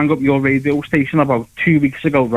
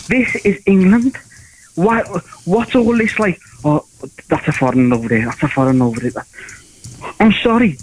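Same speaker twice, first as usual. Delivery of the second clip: ranting inner monologue; 2 semitones higher than usual. Retold or imitated. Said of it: "I thought to myself".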